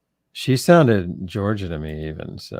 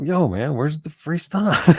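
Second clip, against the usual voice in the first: slow, higher mock demand on the phone; mock pushy caller; 8 semitones higher, slower than usual. Customer calling the store, hammed-up pushy demand. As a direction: play a rude customer, half joking. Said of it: "call somebody and go".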